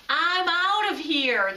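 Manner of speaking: high, loud, slow yelp; yelping bear. A narrator's reading. The scared bear escaping the penguins, yelping high and loud. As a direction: bolt in fright.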